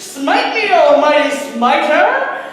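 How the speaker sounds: high, loud yell at the heavens, drawn out at the end. Retold or imitated. Movie character losing it and yelling at God, mock furious yell. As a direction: imitate a man losing it, shouting skyward. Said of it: "he's yelling at this guy".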